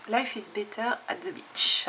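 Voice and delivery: slow English with a French accent; halting French-accented English. Real, not acted. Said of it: "j'ai un super accent anglais".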